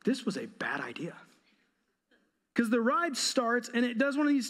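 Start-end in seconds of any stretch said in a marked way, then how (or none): 0.1-1.1 hushed, sinking realization; soft scared whisper; whispered dread. Retold or imitated. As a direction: breathe it out like a private panic. Realizing ride was a bad idea.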